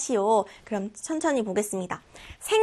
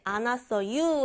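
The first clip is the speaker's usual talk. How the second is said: slow Chungcheong drawl on 안 왔어유; Chungcheong dialect; slower than usual. Shown as a demonstration. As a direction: stretch 왔어유 in Chungcheong tune. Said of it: "하는 건 방언이었잖아요". (충청도 사투리로 느리게)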